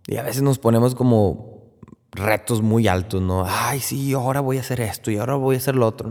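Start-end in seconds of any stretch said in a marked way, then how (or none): 3.5-6.1 quick, higher, rattled-off mock bragging; mocking eager boast. Preacher mimicking people who boast of their Lent challenges, mock eager and fast. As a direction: rattle off the big plans like a show-off.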